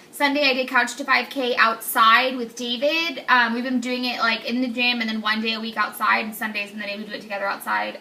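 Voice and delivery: talking while chewing gum; words around a piece of gum. Real, not acted. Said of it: "I'm sorry, I'm chewing gum".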